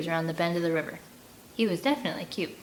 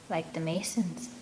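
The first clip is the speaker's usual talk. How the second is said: quietly; 2 semitones lower, 7 dB quieter than usual. A narrator's reading. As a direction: barely say it, uneasy. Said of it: "Finn quietly says".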